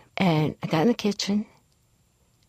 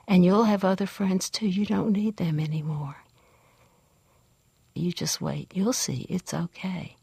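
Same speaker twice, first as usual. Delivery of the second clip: comforting big sister. Retold or imitated. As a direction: murmur it close, easing a crying child. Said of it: "who didn't always try to comfort me, did then".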